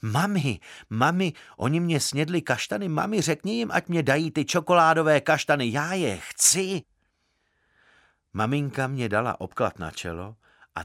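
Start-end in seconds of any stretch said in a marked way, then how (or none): 0.0-6.8 put-on high, loud wailing child's plea; tearful child yelling, pitched up and loud; child bawling for mum. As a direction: howl for mummy like a wronged little boy. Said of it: "já jsem děsně řval".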